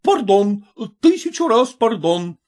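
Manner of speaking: a hint of a flustered officer; apologetic officer. A narrator's reading. Officer apologizes to Nadin's mother, lightly voiced and flustered.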